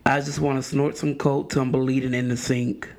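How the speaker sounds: measured, solemn poet's recital; Maya Angelou. Acted. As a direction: recite it low and unhurried, with weighty pauses. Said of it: "in my best Maya Angelou voice".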